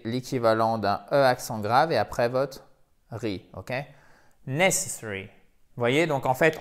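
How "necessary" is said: "necessary" stressed at the start, the rest unfolding lightly; first-syllable stress. Shown as a demonstration. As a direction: lean on NESS in "necessary". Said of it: "on appuie sur la première syllabe". (« necessary », appuyé sur la première syllabe)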